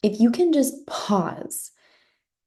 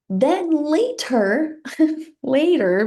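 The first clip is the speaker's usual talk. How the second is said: higher, slow, laughing through it; 8 semitones higher, 4 dB louder, much slower than usual. Real, not acted. Coach amused at her own drawn-out later, laughing. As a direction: let a laugh break in.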